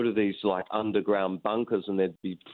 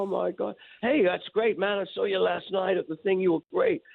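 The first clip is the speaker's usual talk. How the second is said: fake enthusiasm; 9 semitones higher than usual. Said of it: "And I go".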